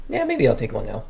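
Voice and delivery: chewing while talking; talking through a mouthful; mouth full. Real, not acted. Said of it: "Oh, sorry, you're eating".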